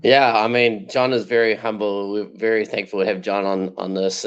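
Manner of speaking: husky, manly voice from a bug. Real, not acted. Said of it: "I'm putting on the most manly voice I possibly can".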